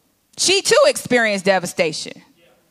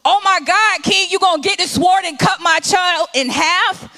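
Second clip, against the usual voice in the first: desperate shout; 5 semitones higher than usual. Acted. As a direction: shout it out in panic. Mother shouting at king.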